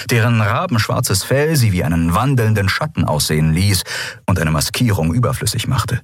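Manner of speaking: ordinary delivery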